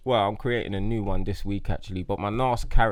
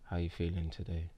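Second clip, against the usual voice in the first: love doctor voice; 3 semitones lower, 3 dB quieter than usual. Pretend. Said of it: "It's gonna be a love doctor".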